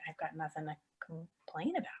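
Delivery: a hushed, breathless whisper; whispering that she has nothing to complain about. Retold or imitated. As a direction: say it under your breath to yourself. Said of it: "I kinda go quiet".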